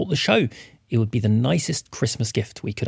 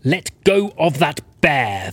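commanding; 3 semitones higher than usual. Acted. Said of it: "the watchman commanded".

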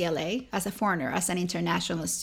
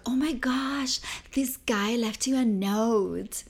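higher, slow, hushed excited whisper; gossipy whisper; 4 semitones higher, slower than usual. Retold or imitated. Manager telling her a guy left a note, whispering.

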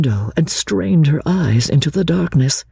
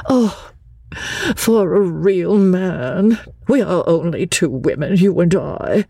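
plaintive; 4 semitones higher than usual. Acted. Charlotte lamenting to Lucy, mildly plaintive. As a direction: sigh for a real man, mildly pitiful. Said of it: "Miss Bartlett became plaintive".

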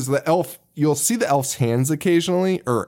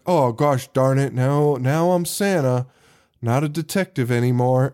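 mopey sad sack. Retold or imitated. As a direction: imitate an actor delivering it with no fight at all. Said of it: "the biggest sad sack in movie history".

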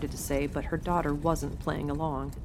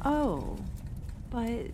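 stammering; 7 semitones higher, slower than usual. A narrator's reading. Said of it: "Emma stammered".

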